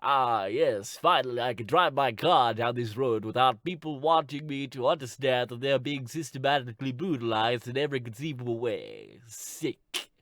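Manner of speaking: lightly put-on self-satisfied voice; mock a complacent driver; white people. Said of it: "all the white people are like".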